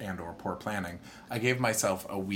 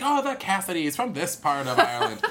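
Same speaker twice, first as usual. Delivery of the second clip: imitating the landlady; 11 semitones higher, 7 dB louder than usual. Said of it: "she's like".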